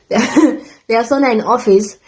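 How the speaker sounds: laughing. Real, not acted. Laughing at the sauna.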